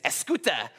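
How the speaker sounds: escuta said as ess-KOO-tuh, stress on the middle syllable; Armenian word. Shown as a demonstration. Pastor teaching the congregation an Armenian word, stress on the middle of "escuta". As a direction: say "escuta" the way an Armenian grandmother would. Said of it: "something they could say in Armenian is".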